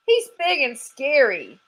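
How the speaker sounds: a squirrel shivering at the memory; scared squirrel. Acted. Squirrel answering Sugar about the dog, lightly high.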